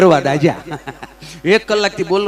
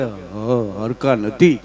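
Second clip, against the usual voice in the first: stammering; 8 semitones lower, much slower than usual. Retold or imitated. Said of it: "તોતડી જીભ".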